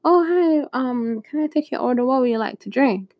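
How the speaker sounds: high, chirpy mock waitress voice; imitated server. Server asking a diner for her order, high put-on voice. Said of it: "they had this server come up".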